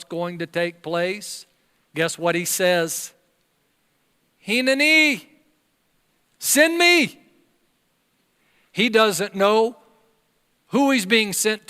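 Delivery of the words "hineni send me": much higher, louder eager cry; eager volunteering. Acted. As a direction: jump in and offer yourself.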